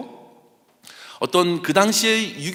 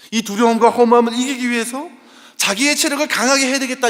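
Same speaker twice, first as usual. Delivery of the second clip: higher, louder, driving sermon voice; fervent preaching; 6 semitones higher, 6 dB louder than usual. Acted. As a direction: press the congregation with urgency. Preaching at full force.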